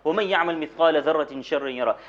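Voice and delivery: fast Arabic verses recited by heart; Quran recitation. Retold or imitated. Preacher quotes the imam's recitation to the congregation, brisk and fluent. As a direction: run through the verses of Surah Zilzal quickly.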